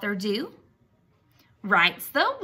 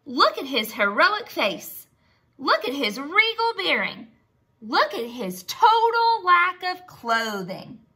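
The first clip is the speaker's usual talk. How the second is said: rising grandeur, slowing at the end; grandly proud; 4 semitones higher than usual. Acted. Mole rats boast about Grandpa, grand and slowing. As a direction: proclaim with pomp, building. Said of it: "they demanded".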